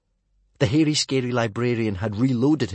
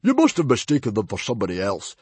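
less of a bellow; 2 semitones higher, 6 dB louder, faster than usual. A narrator's reading. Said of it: "with less of a bellow".

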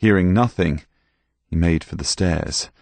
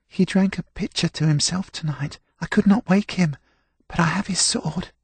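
put-on high, anxious young servant; a scared boy, pitched up; frightened boy voice; 12 semitones higher than usual. A narrator's reading. Frightened serving boy explains.

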